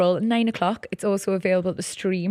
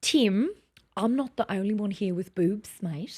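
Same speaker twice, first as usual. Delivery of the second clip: put-on Australian accent, trailing softer on 'mate'; 4 dB quieter than usual. Shown as a demonstration. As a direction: quote the line in your best Australian. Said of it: "Can you do an Australian?".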